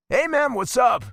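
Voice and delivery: loud friendly call across the beach. Acted. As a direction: shout a greeting from afar. Theo calls out on arrival.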